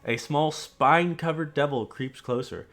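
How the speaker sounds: grave, steady scene-setting; story narration. Acted. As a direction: paint the battlefield for the players. GM describes the vision scene.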